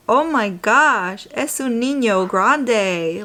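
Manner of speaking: slow, lightly voiced Spanish-accented surgeon; mock a doctor's thick Spanish accent; imitating a thick Spanish accent. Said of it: "with the thickest accent ever".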